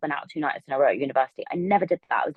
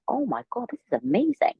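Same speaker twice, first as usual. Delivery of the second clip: higher pitched, a burst of amazement; thrilled; 7 semitones higher than usual. Retold or imitated. Young woman inspired by the room of women, thrilled and higher. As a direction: let the wonder lift your voice. Retold thought at women's book launch.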